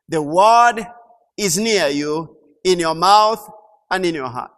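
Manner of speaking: loud, stressed word and mouth; emphatic scripture quote. Real, not acted. Preacher reading Romans to church, loud emphasis. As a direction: declare the verse.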